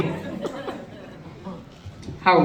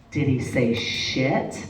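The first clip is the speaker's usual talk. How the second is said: slow, soft conspiratorial question; soft, slow sly question; hushed coaxing; 8 semitones lower, 6 dB quieter, much slower than usual. Retold or imitated. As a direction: lean in and coax the secret out slowly. Mom coaxing daughter, playful game.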